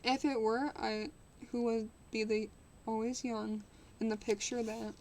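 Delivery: steady storybook reading voice; story narration. Acted. Streamer reading a classic novel to chat, measured narration. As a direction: read the novel aloud to chat, even and clear.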